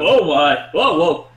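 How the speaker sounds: loud startled whoa; startled loud exclamation. Acted. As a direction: shout in sudden alarm. Character startled by sudden gravity.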